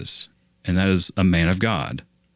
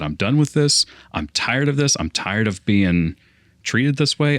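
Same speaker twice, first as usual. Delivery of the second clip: retold chewing out; 3 semitones higher than usual. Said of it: "I just basically chewed him out".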